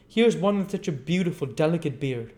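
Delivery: put-on high, sweet coaxing girl; coaxing Charlotte. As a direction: offer it up sweetly to him. Charlotte offering oyster.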